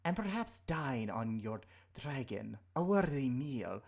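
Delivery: slow menacing serpent whisper; threatening snake creature voice. Acted.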